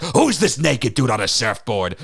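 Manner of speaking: Stan Lee. Retold or imitated. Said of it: "and Stan Lee's like".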